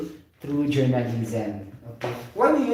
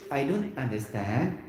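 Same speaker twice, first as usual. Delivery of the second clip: dry delivery; 4 semitones lower than usual. Shown as a demonstration. Teacher showing a dull way students should avoid. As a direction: say it as if you couldn't care less. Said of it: "very dry".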